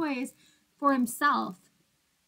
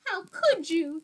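higher, louder, upset outcry; yelling; 5 semitones higher, 4 dB louder than usual. Acted. Iguanodon yells at Minosaur over the tower, upset cry. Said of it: "yelled Iguanodon".

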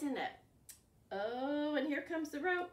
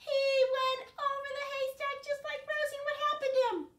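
excited storytelling; 13 semitones higher, 10 dB louder than usual. Pretend.

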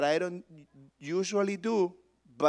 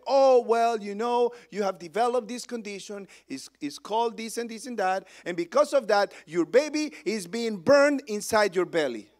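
higher-pitched, casual doctor delivery; tactless doctor; 5 semitones higher, 4 dB louder than usual. Retold or imitated. Doctor telling a pregnant patient bad news, tactless and offhand. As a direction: lightly mimic a doctor breezing through bad news. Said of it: "better ways of sharing news".

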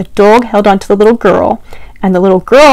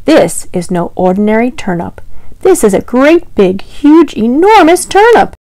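growing amazement. Acted. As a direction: build the wonder word by word. Old man marvels at turnip.

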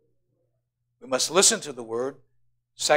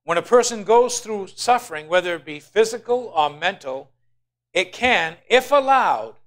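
builds louder and higher through the line; rising preacher fervor; 5 semitones higher, 6 dB louder than usual. Real, not acted. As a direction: swell into preaching intensity.

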